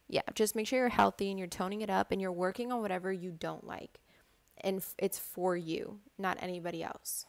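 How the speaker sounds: hushed unvoiced whisper. Real, not acted. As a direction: drop to a whisper, confiding. Confiding aside to viewers.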